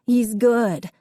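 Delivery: put-on a small boy begging for his dog; pleading child. A narrator's reading. Young Davy pleading to Dad, slow and high.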